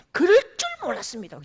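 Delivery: softened. Shown as a demonstration. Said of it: "부드럽게 할게요".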